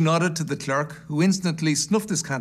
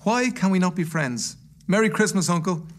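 higher-pitched friendly plea; appealing nephew; 5 semitones higher than usual. Acted. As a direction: appeal cheerfully to a stubborn uncle.

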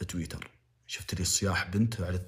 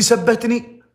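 mocking the excuse; 6 semitones higher, 8 dB louder than usual. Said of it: "تقول لي".

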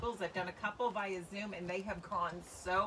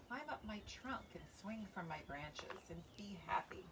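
soft whispered invitation; tree whispering; 8 dB quieter than usual. A narrator's reading. Tree whispers to the boy to come play.

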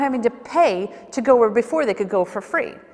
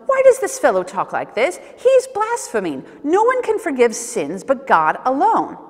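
mildly annoyed objectors. Acted. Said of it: "that annoyed them".

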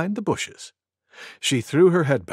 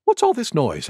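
Deer; 8 semitones higher than usual. A narrator's reading. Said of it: "asked Deer".

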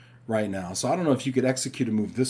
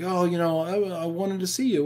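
mimicking his kids; 8 semitones higher than usual. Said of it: "they're like".

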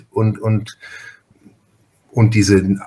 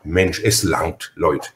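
slow, lower, easygoing; just say it plainly and unhurried; a relaxed, unbothered telling-off; calm and simple; 5 semitones lower, slower than usual. Retold or imitated. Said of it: "ich sag dann ganz einfach".

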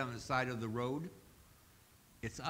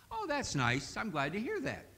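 absent-minded reply; 7 semitones higher than usual. Acted. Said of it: "wasn't all that concerned".

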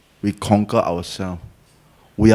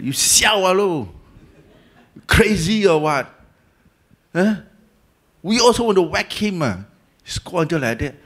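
incredulous friends; 6 semitones higher than usual. Retold or imitated. Friends scolding, raised pitch.

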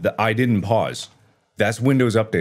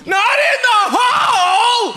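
very high, slow, loud cry; panicked cry; 6 dB louder, slower than usual. Real, not acted. Gamer crying out as he slips into the hole, high and slow. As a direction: plead with the game.

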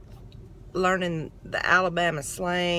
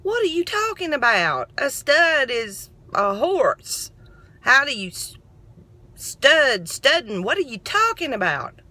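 confused protest; 4 semitones higher than usual. Retold or imitated. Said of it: "I was like".

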